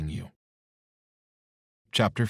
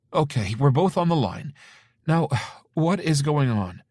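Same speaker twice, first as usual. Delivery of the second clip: anxious mother; 8 semitones higher, 6 dB louder than usual. Acted. Mother on phone.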